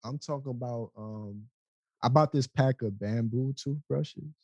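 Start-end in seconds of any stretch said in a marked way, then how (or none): 2.0-4.3 deadpan, in all seriousness; slow, matter-of-fact delivery with a straight face; straight-faced. Real, not acted. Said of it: "say that with a straight face".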